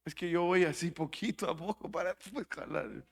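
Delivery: quick, soft mumbled excuse; half-swallowed mumble, trailing away at the end; mock lazy excuse. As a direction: imitate a feeble worker making excuses. Mimics lazy worker excusing himself.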